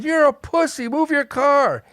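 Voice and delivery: high-pitched jeer, acted out; retold yelling. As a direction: heckle like a driver stuck in back. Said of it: "People in the back are yelling".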